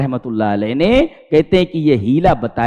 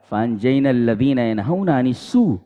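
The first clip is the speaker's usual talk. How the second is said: Quranic recitation; 7 semitones lower, 5 dB quieter, faster than usual. Acted. Quoting a Quran verse.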